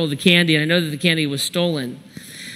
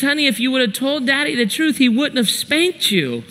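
higher, coaxing mom voice; mock-soothing, pitched up; good-cop mother; 6 semitones higher than usual. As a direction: imitate a mother gently questioning a crying child. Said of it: "she shifts to the good cop".

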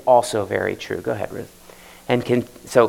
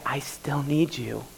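humble plea; 5 dB quieter than usual. Retold or imitated. Preacher voicing repentant sinner to God, soft plea. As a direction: pray it quietly from the knees. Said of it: "and say".

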